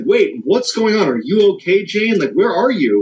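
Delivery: mock-alarmed, pressing for answers; alarmed questions.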